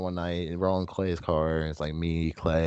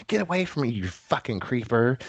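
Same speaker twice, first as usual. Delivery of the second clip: higher-pitched retold rebuff; lightly acted indignation; mock indignant woman; 5 semitones higher than usual. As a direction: imitate an offended woman, slowing on the insult. Retold bar quarrel, woman snapping.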